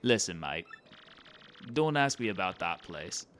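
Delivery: wobbly put-on British Isles accent; badly faked British sliding towards Irish; bad British-Scottish-Irish accent. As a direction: warn them in a muddled British accent. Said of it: "bad British accent to bad".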